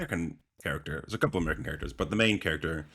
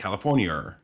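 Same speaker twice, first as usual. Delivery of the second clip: "California" with a false American R tacked on the end; overdone American accent. Shown as a demonstration. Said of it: "you overdo it".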